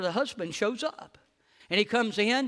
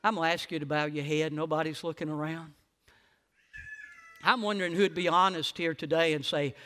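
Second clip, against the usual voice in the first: hushed closing prayer. Acted. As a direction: gently lead them into prayer. Altar call, heads bowed.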